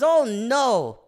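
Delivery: put-on loud, high drunken wail; mock-panicked helium impression; hammered Michael Caine. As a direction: wail it high, breaking into laughter. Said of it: "That was just you hammered".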